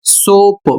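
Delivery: सोप as a clear classroom example; careful English pronunciation. Shown as a demonstration. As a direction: model सोप with a long O. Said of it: "तीसरा शब्द है".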